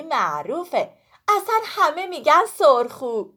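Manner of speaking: a lightly voiced chatty fruit; boastful pomegranate. Sorkhoo brags to Woolak about her chatty sister. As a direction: brag playfully about your talk.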